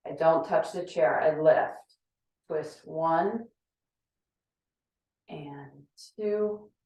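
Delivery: straining mid-exercise; talking while doing sit-ups; abs burning. Real, not acted. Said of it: "Ooh, my abs are burning up".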